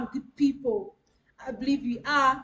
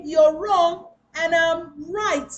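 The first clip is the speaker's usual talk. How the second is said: drawn out, louder and self-righteous; smug, slow put-down; 5 dB louder, much slower than usual. Shown as a demonstration. Coach mocking an arrogant speaker, slow smug put-down. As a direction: lean on every word like a know-it-all. Quoting what not to say.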